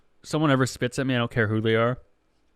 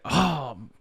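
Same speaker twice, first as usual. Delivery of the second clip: whiny request; 4 semitones higher, slower than usual. Retold or imitated. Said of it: "And he's like".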